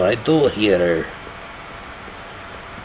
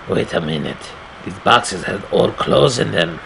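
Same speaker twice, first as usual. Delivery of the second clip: put-on lightly accented storyteller voice; narrator in a put-on accent. Player voicing the game's hero, light put-on accent. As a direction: read the game narration in the hero's accent. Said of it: "that's the accent I want him to speak in".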